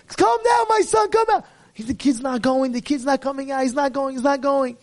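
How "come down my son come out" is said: father screaming up at his son. Acted. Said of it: "his father's screaming".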